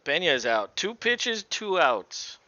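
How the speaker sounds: high, loud excited call. Real, not acted. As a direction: cheer the out like a fan.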